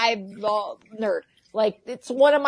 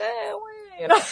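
put-on higher, shrugging kid voice; a hint of a shrugging little boy; imitating her son; 10 semitones higher, much faster than usual. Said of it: "And he's like".

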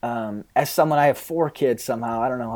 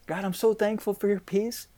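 hollow pious prayer=80; 7 semitones higher, 5 dB quieter than usual. Retold or imitated. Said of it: "what we've been saying in our prayer life is".

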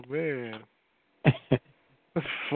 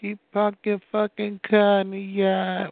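mimicking a Boston accent; lightly mocked Boston accent; 3 semitones higher than usual. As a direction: imitate a Boston accent, dropping the R in "car". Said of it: "like that's how they talk in Boston".

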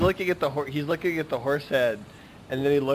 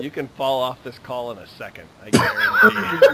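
Godfather voice; 2 semitones lower, 3 dB louder than usual. Acted. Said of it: "like, Godfather".

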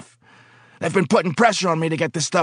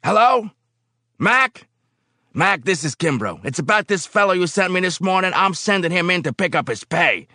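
high, loud phone rant; angry phone call; 7 dB louder than usual. Acted. Foreman shouting down the phone to personnel. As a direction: bark into the phone.

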